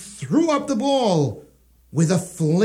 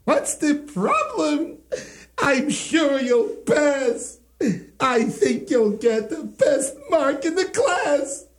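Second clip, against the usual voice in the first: laughing reassurance; 5 semitones higher than usual. Acted. Yanko laughs kindly.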